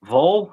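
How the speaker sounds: "Vole" as a rising question; puzzled local vole. Retold or imitated. Locals answering his correction, questioning "Vole". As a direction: ask "Vole" with a long o. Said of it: "And they're like".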